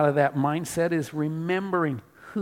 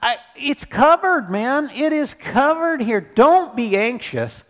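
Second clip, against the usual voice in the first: playful Paul voice, higher; Paul voiced higher; 7 semitones higher than usual. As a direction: voice Paul casually, higher pitched. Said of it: "Paul is saying".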